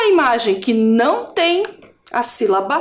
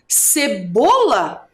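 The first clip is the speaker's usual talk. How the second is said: sounding out; 3 semitones lower, much slower than usual. Shown as a demonstration. Teacher sounds out the word.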